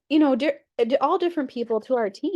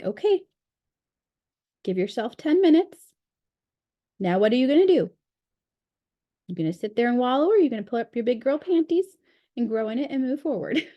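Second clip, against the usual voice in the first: lightly imitating a sweetly firm mentor, pitched up at first; sweet tough love; 3 semitones higher, faster than usual. Mentor to a crying team member, sweet tough love. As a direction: gently push them along, a touch of tough love. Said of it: "in her sweet, tough love voice".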